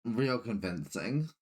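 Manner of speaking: slow, dry sarcasm; sarcastic. Acted. Player doubting a friend's denial, sarcastic. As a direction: draw it out as mock praise. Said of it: "when I was being sarcastic".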